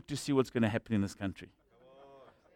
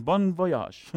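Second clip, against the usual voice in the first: laughing farewell. Retold or imitated.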